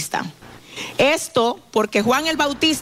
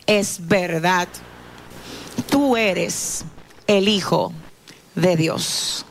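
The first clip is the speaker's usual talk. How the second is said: scripture reading. Acted. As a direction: read the passage like a storyteller in church. Reads scripture aloud to congregation.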